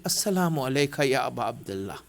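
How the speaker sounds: Assalamu alayka ya Aba Abdullah whispered very soft and low. A narrator's reading. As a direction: let the whole greeting fade into a whisper. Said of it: "In his whisper, he said that".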